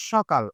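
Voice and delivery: সকাল pronounced 'shokal'; palatal sh pronunciation. Shown as a demonstration. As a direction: demonstrate সকাল with an initial sh. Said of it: "তালব্য স এর উচ্চারণ করব".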